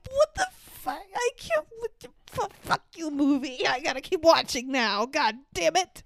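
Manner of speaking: high, squeaky exasperated rant; mock outrage. After the dog dies, ranting at the movie in high disbelief. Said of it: "And I'm like".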